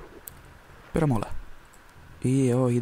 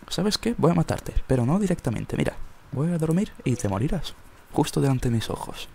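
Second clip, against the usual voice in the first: gleeful villain threat; mustache twirling villain; 5 semitones higher than usual. Pretend. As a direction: menace them like a cartoon villain. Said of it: "Me siento un Joker".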